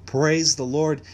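loud, lifted burst of praise; exclaimed praise. Real, not acted. Host rousing listeners to praise the Lord, exclaiming. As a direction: call it out like a preacher.

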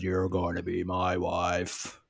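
a hint of a slow, menacing monster; drawn out like a lurking beast, lightly voiced. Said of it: "the beast talks to her and says".

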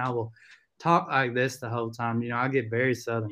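light Texas country accent; Southern accent. Shown as a demonstration. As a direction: slip into a relaxed Southern accent. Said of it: "start with my country accent".

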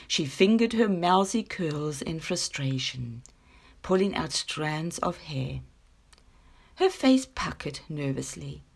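unhurried storybook reading voice; story narration. A narrator's reading. Reading her short story to podcast listeners, gentle storytelling. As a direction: read it like a bedtime tale. Reads a children's story aloud.

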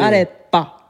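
put-on high, loud Italian-accented "Arepa"; Italian-accented Spanish. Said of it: "con un acento".

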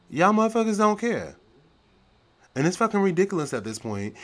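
high, loud furious yell; yelling in anger. Real, not acted. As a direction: shout it out, outraged. Angry rant peak.

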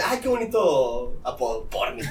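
laughing mom. Retold or imitated. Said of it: "se empieza a reír y dice".

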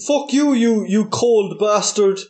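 slow, put-on Eskimo caricature; mock-angry Eskimo accent. Podcaster trading Eskimo insults, mock accent.

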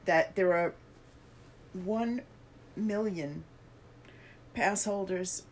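hiccups. Real, not acted. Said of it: "Sorry, I got the hiccups".

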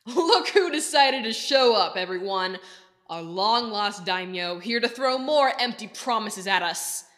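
slow, mocking, jeering taunt; mocking laughter in voice. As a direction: sneer at the returned lord. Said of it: "as he began to laugh".

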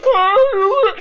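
very high, loud imitated wail; mock shriek cry. Imitating the girl's shriek over her broken bed, loud wail. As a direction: shriek like she's been punched. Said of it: "she was like".

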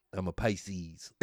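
"I'm a Pisces." stretched out slowly, quiet and dreamy; overdone Pisces boast. Retold or imitated. Mocking men who announce their sign, slow overdone boast. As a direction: drag "I'm a Pisces." out slow and soft, hamming it up. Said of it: "I might be overdoing it".

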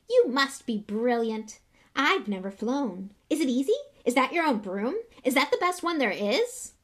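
very high, loud, breathless little fan; eager young boy. A narrator's reading. Young fan Colin rushes to show Harry his photo, very high. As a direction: bounce with excitement at your hero.

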